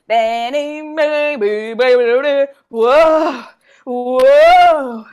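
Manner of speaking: loud, eager coaxing; rising excitement in a party game; excited urging. Real, not acted. Frantic clue-giving, getting louder.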